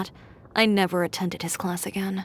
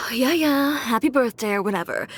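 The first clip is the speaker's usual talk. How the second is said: grudging; 3 semitones higher than usual. Acted. Grudging birthday wishes.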